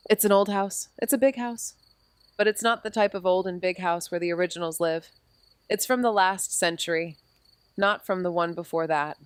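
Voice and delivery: calm, even audio drama narration; story narration. A narrator's reading. Amy narrating the arrival at Marion's house. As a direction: paint the house for the listener.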